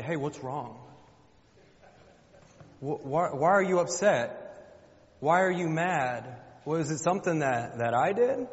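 mock-innocent husband, pitch climbing to the end; clueless husband. Husband asking his upset wife if he did something, mock-clueless. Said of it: "we have the audacity as husbands say".

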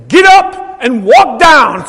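loud, slow, drawn-out command; commanding inner call. Retold or imitated. Preacher retelling the call to the altar, loud slow command. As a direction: imitate an insistent order to rise. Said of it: "He says".

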